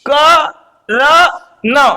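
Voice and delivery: क र न stretched syllable by syllable; drawn-out Karan. Shown as a demonstration. Teacher stretching the name for the class. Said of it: "खींच के बोल दिया मैंने लास्ट में".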